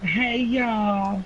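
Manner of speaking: flirty Southern hello; drawled Southern greeting; southern accent. Pretend. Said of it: "It sounds very flirtatious".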